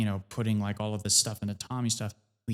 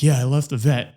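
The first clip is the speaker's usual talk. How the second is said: dad's answer; 8 dB louder than usual. Retold or imitated. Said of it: "he's like".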